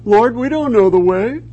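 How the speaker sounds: high, pleading mock voice of followers; puzzled disciples. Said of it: "His disciples who said".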